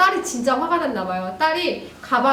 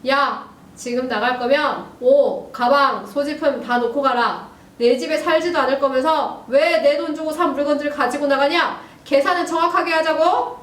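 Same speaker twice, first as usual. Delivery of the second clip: scary stern father; 3 semitones higher, 4 dB louder than usual. Acted. Dad threatens daughter who is leaving, mock menace. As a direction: deliver it coldly and deliberately. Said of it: "아주 무서운 태도로 딱 한마디를 합니다".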